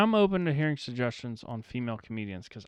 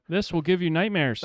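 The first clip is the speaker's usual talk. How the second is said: loud, higher clickbait teaser; tabloid tv host; 5 semitones higher, 5 dB louder than usual. Retold or imitated. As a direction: sell it like a scary headline.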